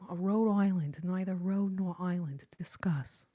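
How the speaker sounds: put-on sketch host's New York-area accent, trailing down on the last word; Linda Richmond. Streamer redoing the sketch line for viewers, New York-area accent. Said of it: "That played Linda Richmond".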